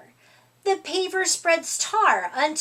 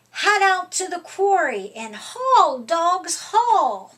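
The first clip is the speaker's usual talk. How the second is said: a foreman's rallying call, louder on haul; calling out orders; 2 semitones higher, 3 dB louder than usual. Acted. Foreman Duke sends the dogs to the quarry, calling out loudly.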